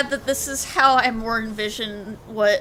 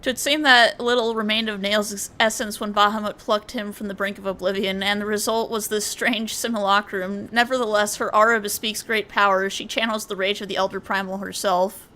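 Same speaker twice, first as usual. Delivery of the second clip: grand, archaic cutscene voice; dramatic dialogue reading. Acted. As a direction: read it like a solemn epic narrator. Reads game dialogue aloud.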